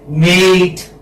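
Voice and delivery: "Mate" with the vowel gliding from e to i; gliding diphthong. Shown as a demonstration. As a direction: show the ei glide in "Mate" clearly. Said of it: "But here it is changing".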